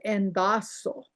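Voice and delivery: endaso with a full D and a rising end; endaso dialect form. Shown as a demonstration. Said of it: "some dialects have it".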